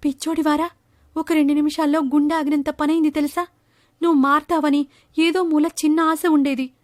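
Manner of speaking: a lightly voiced disgusted mum; mother scolding her prankster son.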